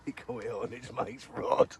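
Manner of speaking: real laughter breaking into the words; cracking up. Real, not acted. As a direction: struggle to speak through wheezing laughter. Cracking up at the stolen fish.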